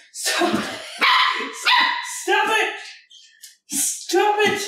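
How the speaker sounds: very high pet-talk scold; high dog-talk voice. Real, not acted. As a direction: squeak it at the dog.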